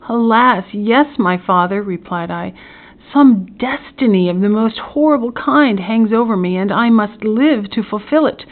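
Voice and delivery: mildly impassioned despair, subsiding at the end; anguished lament. Acted. Tearful son answers his father, mildly anguished. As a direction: lament a horrible destiny.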